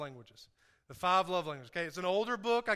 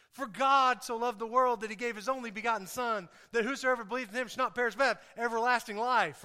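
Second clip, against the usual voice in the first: quick usual reading; 2 semitones higher than usual. Shown as a demonstration. Pastor to congregation, quick familiar reading. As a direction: read at the usual quick pace. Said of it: "I'll read it quickly like we usually read it".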